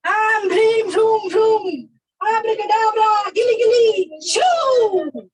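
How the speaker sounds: loud hocus-pocus incantation; kids party magician. Acted. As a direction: chant the spell with gusto. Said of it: "let me do my white magic".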